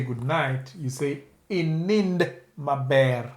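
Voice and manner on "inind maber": slow careful model. Shown as a demonstration.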